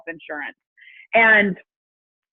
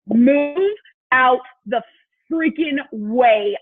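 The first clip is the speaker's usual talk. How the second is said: slow, louder, every word hit hard; determined; 2 semitones higher, 4 dB louder, much slower than usual. Retold or imitated. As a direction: vow it through clenched resolve. Resolve to change business.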